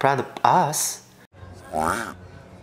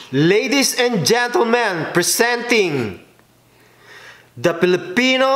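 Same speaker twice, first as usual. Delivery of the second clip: announcer voice; slower than usual. Acted. Grand presentation of the dish.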